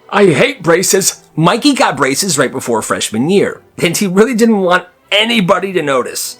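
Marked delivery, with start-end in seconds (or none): 0.1-1.2 emphatic groan. Real, not acted. Narrator aside about braces.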